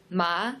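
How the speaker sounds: ma rising like a question; second tone ma. Shown as a demonstration. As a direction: lift ma upward as if asking. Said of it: "it's a rising tone".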